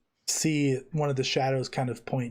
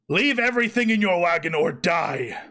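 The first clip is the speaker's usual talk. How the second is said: orc guard shout; 3 semitones higher, 4 dB louder than usual. Acted.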